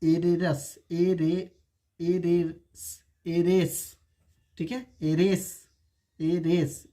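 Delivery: एरेस drawn out with no h; demonstrated pronunciation. Shown as a demonstration. Teacher shows how to read heiress, एरेस without h. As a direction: say एरेस starting on the vowel. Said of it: "इसे हम लोग पढ़ेंगे".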